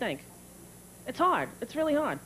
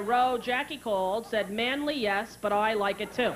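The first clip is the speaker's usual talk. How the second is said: slow mock Irish dad; Irish brogue; 4 semitones lower, slower than usual. Irish father's refrigerator message, slow brogue. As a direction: read it out slowly in Irish accent. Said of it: "He's got a thick brogue".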